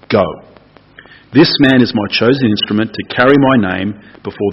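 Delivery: a calm, weighty command, lightly acted; lightly voiced Lord. The Lord sends Ananias to Saul, calmly commanding.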